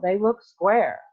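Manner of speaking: put-on high, loud insistent girl; stubborn spoiled child; bratty girl. A narrator's reading.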